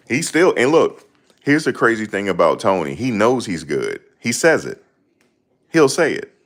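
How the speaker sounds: hyped-up telling about a boxer; excited. Real, not acted. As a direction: push it out with excitement. Excited about Tony's confidence.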